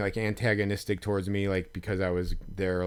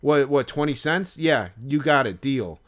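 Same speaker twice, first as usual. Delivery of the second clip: deadpan joke; 4 semitones higher, 6 dB louder than usual. Retold or imitated. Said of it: "I go like".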